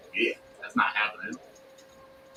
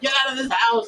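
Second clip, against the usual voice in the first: much higher, very slow stretched fury; imitated screaming mom; 12 semitones higher, 3 dB quieter, slower than usual. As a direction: drag out the curse, shrill. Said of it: "she's yelling at me".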